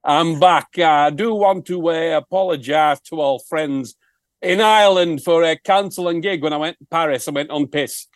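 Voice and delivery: a hint of a northern English rock singer's accent; lightly put-on northern English accent; mock northern English accent. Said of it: "where that accent came from".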